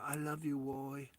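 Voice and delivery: soft mock Asian-accented voice; lightly put-on Asian accent, hushed; imitated Asian accent. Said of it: "Now she sounds Asian".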